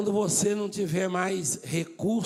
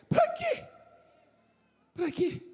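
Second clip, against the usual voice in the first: mock high repeat. Mocking repeat of the question.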